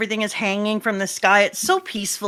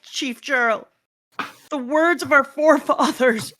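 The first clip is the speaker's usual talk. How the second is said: higher-pitched anguished plea; distressed cry; 4 semitones higher, slower than usual. Acted. Villagers watching the library burn, distressed. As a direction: plead over what is being lost.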